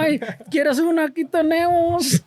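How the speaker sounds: high, slow teasing voice; mocking slow voice. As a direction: tease him like a sleepy friend. Imitating sluggish coworker.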